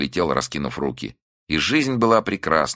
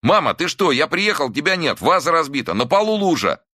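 high, frantic scolding; angry scolding; 11 semitones higher, 3 dB louder than usual. A narrator's reading. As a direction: scold her in frightened anger. Son scolds missing mother.

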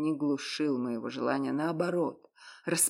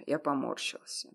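usual speaking voice

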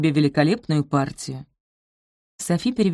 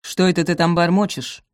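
stern. Acted. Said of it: "строго спросила Раминта".

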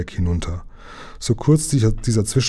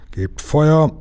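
higher-pitched captain's command; raised voice, not full shout; calling out; 6 semitones higher than usual. A narrator's reading. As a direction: call the order to the gunners. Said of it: "rief der Kapitän".

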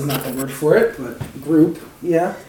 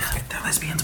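whisper yelling; 10 dB quieter than usual. Real, not acted. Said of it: "Why are we whispering?".

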